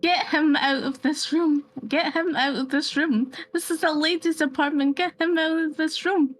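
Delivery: shrill Brooklyn demand to throw him out; Brooklyn accent. Acted. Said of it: "Brooklyn kind of accent".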